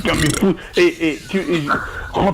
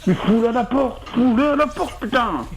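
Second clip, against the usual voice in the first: angry; 6 semitones higher, slower than usual. Acted. Father angry at drunk.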